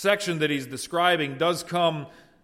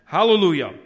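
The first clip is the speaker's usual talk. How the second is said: a sudden loud Hallelujah; worshipful shout; 3 semitones higher, 9 dB louder, faster than usual. Acted. Elders worshipping before the throne, loud Hallelujah. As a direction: burst out in worship. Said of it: "fell down and worshipped God".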